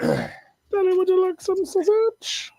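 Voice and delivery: high, slow teasing voice; mock taunt. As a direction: purr the offer like a tease. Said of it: "mocks friend's sausage line".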